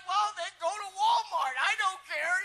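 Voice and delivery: playfully irritated brush-off; fed-up retort. Retold or imitated. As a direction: throw it back, acting fed up. Retells own fed-up reply.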